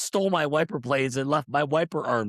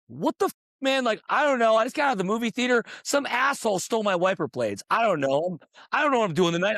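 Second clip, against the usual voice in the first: retold anger; 6 semitones higher than usual. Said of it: "I was so pissed".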